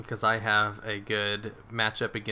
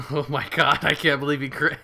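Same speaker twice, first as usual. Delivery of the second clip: shocked disbelief; 4 semitones higher, 6 dB louder than usual. Real, not acted. Shocked at a critical hit.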